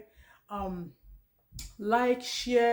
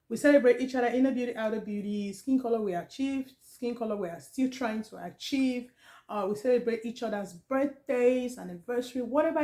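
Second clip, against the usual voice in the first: louder take, voice cracking; loud unsteady voice. Real, not acted. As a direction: push the voice louder through a cold. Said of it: "So I am trying to scream, so, like, talk louder".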